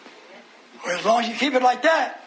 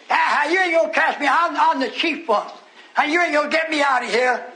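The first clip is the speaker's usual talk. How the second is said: raised, defiant devil's boast; taunting devil; 4 semitones higher than usual. Retold or imitated. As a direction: jeer like a demon refusing to leave. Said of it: "That devil would laugh at me".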